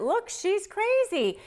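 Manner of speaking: high, slow, mocking voice of the narcissist. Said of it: "went right into court and used it".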